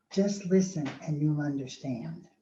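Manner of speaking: softly spoken, gentle counsel; hushed advice. Retold or imitated. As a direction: retell it softly, as tender reassurance. Visitor's tender advice, retold.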